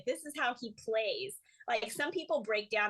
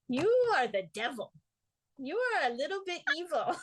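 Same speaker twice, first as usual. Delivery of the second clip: imitated teacher's verdict; 6 semitones higher, 3 dB louder than usual. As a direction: pass judgment like a dramatic drama teacher. Acting out teacher's verdict on her.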